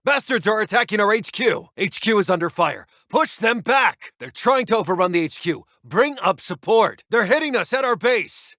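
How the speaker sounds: rally the men as the HQ gets hit; urgent battle alarm. Acted. HQ under attack, urgent orders.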